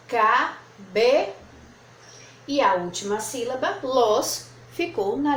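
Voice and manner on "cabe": "Cabe-" as ca, be, each set apart; two separate syllables. Shown as a demonstration. Teacher showing the two syllables that fit, "Cabe-" split ca, be. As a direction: spell out "Cabe-" slowly by syllable, left hanging. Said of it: "coube duas sílabas".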